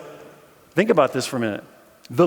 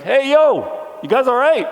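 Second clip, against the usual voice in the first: casual greeting; 11 semitones higher, 7 dB louder than usual. Retold or imitated. Jesus greeting frightened disciples.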